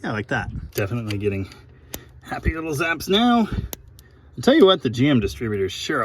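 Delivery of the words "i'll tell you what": folksy drawl. Acted. Folksy emphatic aside.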